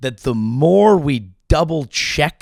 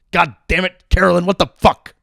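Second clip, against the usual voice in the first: mock exasperation; 5 semitones higher, 4 dB louder, faster than usual. Scolds Carolyn like a dog.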